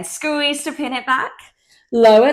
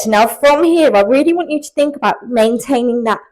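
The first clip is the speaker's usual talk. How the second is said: face down, voice muffled by the mat; talking into the floor; 3 dB louder than usual. Real, not acted. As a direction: speak with your face on the floor. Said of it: "sorry, I'm, like, talking into the floor".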